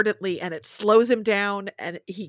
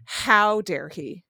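mock swoon; 2 semitones lower, slower than usual. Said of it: "all caps".

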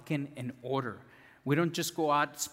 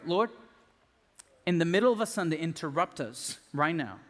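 prayer. Acted. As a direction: pray aloud, leading the room. Leads congregation in prayer.

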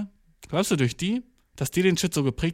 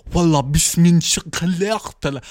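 mock Arabic; 4 dB louder than usual. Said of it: "er sagt so, ah ja".

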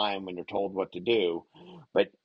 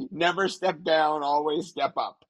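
higher, grand speech-making voice; presidential address; 7 semitones higher than usual. Pretend. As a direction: deliver it like a rousing keynote line. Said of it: "there's a line that's important for you".

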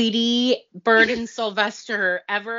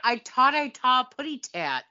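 Tweety voice; 5 semitones higher, 4 dB louder than usual. Retold or imitated. Quoting Tweety's catchphrase.

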